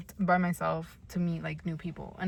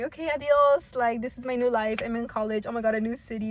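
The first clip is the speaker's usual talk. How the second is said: excited; 4 semitones higher, 3 dB louder than usual. Retold or imitated. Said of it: "Like, I was happy".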